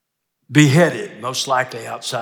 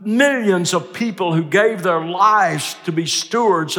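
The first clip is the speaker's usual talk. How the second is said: raised, driving pulpit delivery; impassioned preaching; 6 semitones higher, 5 dB louder than usual. Real, not acted. Preacher telling how the gospel reached us, impassioned. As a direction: press it home to the congregation.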